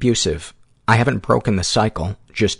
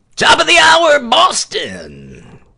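loud, swooping, pitched-way-up cheesy DJ voice; 7 dB louder than usual. Joking about the name Chumbucket69, the speaker slips into a bad DJ voice. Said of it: "bad DJ voice".

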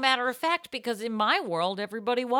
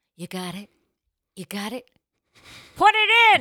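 forceful, aggressive delivery; 3 semitones lower, 7 dB louder than usual. Performing a scripted bit with a partner: aggressive delivery. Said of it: "Can you say "put it in" less aggressively?".

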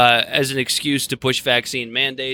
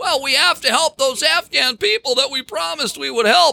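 very high-pitched put-on voice, fully in character; 12 semitones higher than usual. Mocking people who argue for staying: Jimmy Stewart voice. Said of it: "why I said that like Jimmy Stewart".

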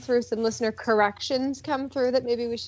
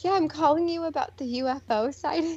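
put-on thick California accent; 4 semitones higher than usual. Retelling a call to a cajun man about a ufo sighting, in a very california voice. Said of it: "in my very California voice".

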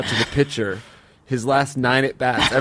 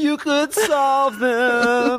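put-on voice about to cry; 12 semitones higher than usual. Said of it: "Doesn't it sound like I'm a little bit about to cry?".

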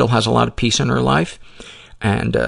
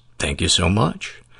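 radio DJ voice, lower; 5 semitones lower, 3 dB quieter than usual. Host thanking guest Jen at the end of their talk, in a radio DJ voice.

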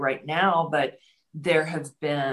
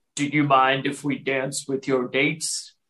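voice dropped way down, very deep and low. Retelling how three men at a club asked to dance, in a very deep voice. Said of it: "they say in a very deep voice".

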